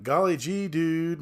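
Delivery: goofy gee-whiz voice; mock wholesome teen talk; dopey movie dialogue. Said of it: "It's like".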